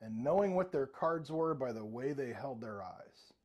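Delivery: slow, lightly dramatic quote; slow recital. Retold or imitated. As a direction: recite it slowly, like wise advice. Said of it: "And that's where he says".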